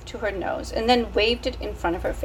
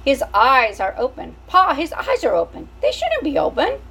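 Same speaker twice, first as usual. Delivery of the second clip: put-on rising higher, child voice; alarmed brother; 5 semitones higher, 4 dB louder than usual. Brother Filot telling Pa the baby's eyes are open. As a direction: call out to Pa in alarm. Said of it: "said a brother named Filot".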